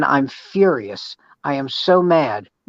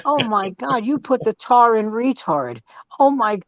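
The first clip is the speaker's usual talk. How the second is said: mock insult; 8 semitones higher than usual. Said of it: "And I go".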